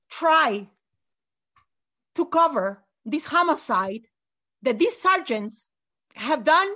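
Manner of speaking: a grieving parent vowing to fight; real defiance, word by deliberate word; impassioned resolve. Real, not acted. Grieving parent vows to fight cover-up.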